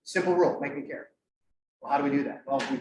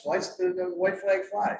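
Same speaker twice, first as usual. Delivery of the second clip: put-on joking French accent, drawn out; slow mock-French delivery; slower than usual. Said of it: "sorry, my French accent".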